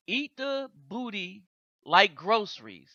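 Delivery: reading a caption. Retold or imitated. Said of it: "this actually says".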